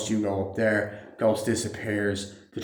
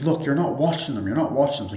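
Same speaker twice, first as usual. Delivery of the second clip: lightly acted nagging, pitched up; mock arguing; 5 semitones higher, 3 dB louder than usual. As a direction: imitate a spouse's scolding complaint. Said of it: "arguing with his wife".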